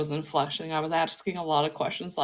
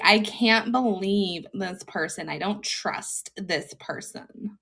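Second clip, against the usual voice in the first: put-on valley girl; slower than usual. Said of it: "the squirrel's like".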